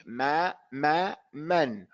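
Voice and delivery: "ma, ma, man" with open, equally timed vowels; correct equal fathas. Shown as a demonstration. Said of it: "We have to say".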